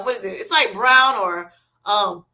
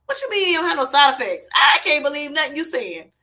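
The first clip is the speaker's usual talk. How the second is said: higher-pitched mock disbelief; incredulous inner retort; 4 semitones higher than usual. Retelling her silent answer to the doctor, incredulous. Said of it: "in my head, I'm like".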